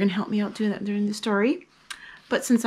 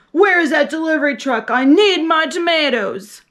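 loud, fast, higher grocer's yell; 5 semitones higher, 6 dB louder than usual. Acted. Grocery man yelling for his delivery, loud and fast. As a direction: bark it out impatient and quick. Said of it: "stomped out ... and yelled".

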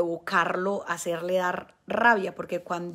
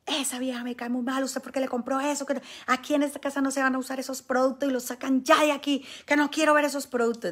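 mock angry husband; 5 semitones higher than usual. Angry husband voiced in story.

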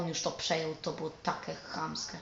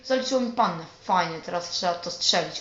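excited shout; 8 dB louder than usual. Real, not acted. Gamer scores a goal.

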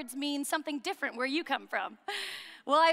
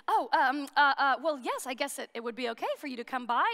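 hesitant, sputtering start, then a hurried reluctant yes; mock flummoxed. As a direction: imitate a flustered man stammering. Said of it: "he starts flummoxing and he goes".

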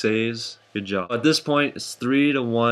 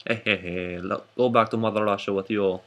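bad Russian accent; 2 semitones lower than usual. Host sending player back to Mother Russia, bad Russian accent. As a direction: put on a poor Russian accent. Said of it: "Why do I have a very sad accent?".

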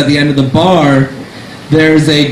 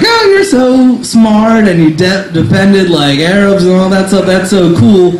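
a woman at the bar gushing, higher; 4 semitones higher than usual. Retold or imitated. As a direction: fawn over him sweetly. Voicing the admiring woman.

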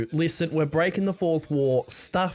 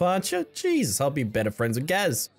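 ordinary delivery

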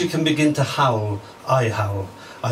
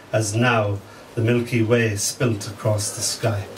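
poetry reading. Acted. Reading his poem about his dying mother, measured and hushed. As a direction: let each image settle.

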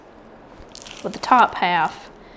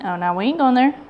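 ordinary talk, nothing marked

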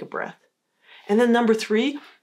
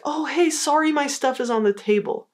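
apologetic, self-blaming; 7 semitones higher than usual. Shown as a demonstration. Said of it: "The n-, negative or "I'm bad" approach is like".

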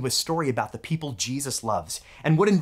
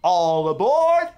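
slow, louder all aboard call; drawn-out conductor's call to the passengers; conductor yell; 5 dB louder, slower than usual. Retold or imitated. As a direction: call it out like a cheerful train conductor. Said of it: "He yells".

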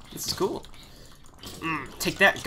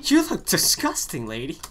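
much higher, slow mocking echo; high mocking repeat; 3 semitones higher, 5 dB louder than usual. Shown as a demonstration. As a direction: parrot it back high and slow. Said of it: "mocking repeat of the line".

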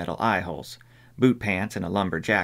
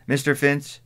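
shouting into phone; 6 semitones higher than usual. Acted. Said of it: "she shouted".

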